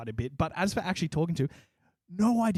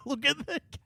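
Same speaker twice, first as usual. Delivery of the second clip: high-pitched mock coaxing; imitated excited mum; 10 semitones higher, 4 dB quieter than usual. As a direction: put on an eager mum's high voice. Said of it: "And she's like".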